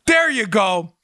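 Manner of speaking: ordinary talk, nothing marked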